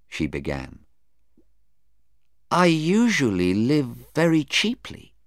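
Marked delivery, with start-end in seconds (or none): 2.5-5.1 higher voice for the witness, mildly defensive. Acted. Sarah answering about her spending, mildly defensive. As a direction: explain yourself on a raised pitch.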